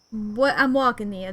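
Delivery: put-on amateur Jersey accent; New Jersey accent attempt. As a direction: try a Jersey accent, slightly off. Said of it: "what do I say as, like, a trigger phrase".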